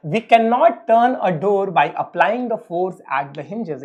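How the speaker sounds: each word spaced out slowly for note taking; slow dictation. Acted. Teacher dictating a definition to his students, very slow and spaced. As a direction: read it out very slowly so they can write.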